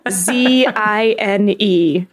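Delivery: slow letter-by-letter spelling. Shown as a demonstration. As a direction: spell Z I N E out slowly, one letter at a time. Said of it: "this is how I think it's spelled".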